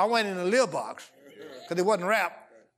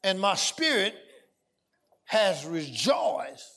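slow scripture reading; much slower than usual. Acted. Reading Mary's words slowly.

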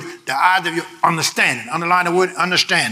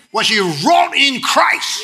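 slow shouted climax; 4 semitones higher, much slower than usual. Real, not acted. Preacher closing the verse to the church, slow shout. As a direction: drag out the verse at full voice.

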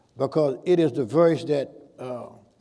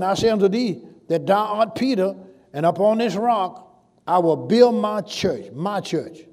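raised pulpit proclamation, slowing on the church line; preaching; 2 semitones higher than usual. Acted. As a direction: proclaim the verse to the congregation. Preaching scripture.

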